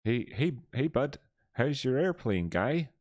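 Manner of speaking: high, chirpy cartoon guy greeting his bud; South Park cartoon voice. Streamer imitates a South Park clip, high cartoon voice. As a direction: pitch it up like a cheery cartoon kid. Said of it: "That, that clip in, uh, in South Park".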